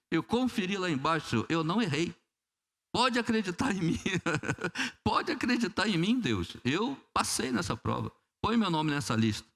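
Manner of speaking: súplica mais aguda e insistente, como quem convence Deus; oração insistente. Acted. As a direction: implorando em tom mais alto. Menino insistindo com Deus. (menino teimoso jurando a Deus que passou, em súplica aguda)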